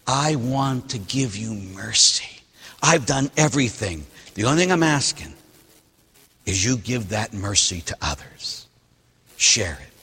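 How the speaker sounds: tender Father. Acted. God the Father to us, softly gentle.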